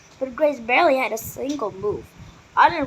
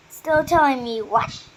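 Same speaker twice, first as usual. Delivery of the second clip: stern; 4 semitones higher, 4 dB louder, slower than usual. A narrator's reading. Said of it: "A stern voice at the door".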